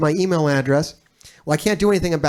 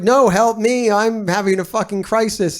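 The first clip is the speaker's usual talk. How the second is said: higher-pitched, insistent retold plea; mock panicked plea; 5 semitones higher than usual. Husband retelling his plea to his busy wife, mock panic. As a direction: plead in an exaggerated crisis.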